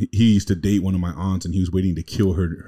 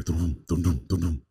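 car doors slamming; slower than usual. Retold or imitated. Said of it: "It sounded like car doors slamming".

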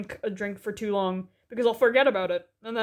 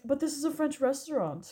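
softer mock French waiter, close to laughing; obvious French dude; 3 semitones higher, 5 dB quieter than usual. Friend retelling the receptionist's retort, lightly mocked French dude. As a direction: lightly imitate a French host. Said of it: "obvious French dude".

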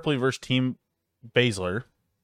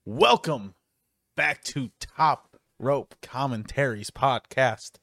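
ringmaster; slower than usual. Pretend. Podcast opening announcer intro.

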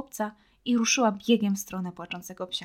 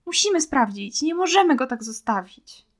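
tearful insistence; 5 semitones higher, 6 dB louder than usual. A narrator's reading. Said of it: "rozpłakała się na dobre".

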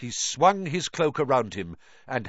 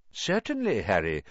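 calm; 4 semitones lower than usual. Acted. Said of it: "said Dumbledore calmly".

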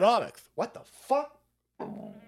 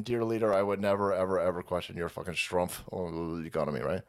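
mock groveling; 13 semitones lower, 4 dB quieter than usual.

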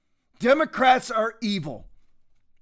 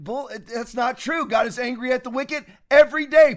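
louder, higher insistence; heated shout; 4 semitones higher, 4 dB louder than usual. Real, not acted. Host rebuts viewers calling him un-Christlike, loud and heated. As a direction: preach it with force.

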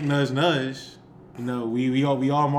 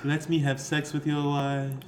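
cult leader voice; 3 dB quieter, slower than usual. Pretend. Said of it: "it's my cult voice".

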